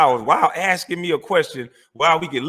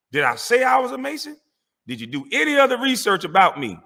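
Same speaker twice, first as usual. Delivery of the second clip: heated; 4 semitones higher than usual. Real, not acted. Heated argument on the mic.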